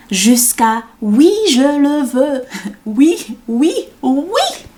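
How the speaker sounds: stretched yes rising to a high pitch; giddy mock vows. Poem mimicking eager brides, giddy rising recital.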